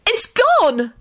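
high, thrilled exclamation; excited relief. A narrator's reading. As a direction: cry it out with great relief. Rosie relieved the curse is gone.

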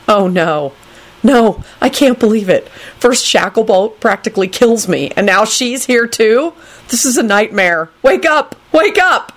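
dismay building to high-pitched pleading; panicked disbelief. Acted. Neville sees Rosie at the table, rising panic. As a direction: climb from dismay into mild panic.

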